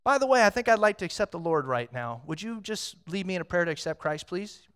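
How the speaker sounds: lightly voiced eager friend; a friend suddenly asking to be led in prayer; hint of an excited friend. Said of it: "they look at you in Walmart and like".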